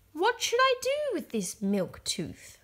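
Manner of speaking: put-on high, curious little girl; a lightly voiced Peppa asking. A narrator's reading.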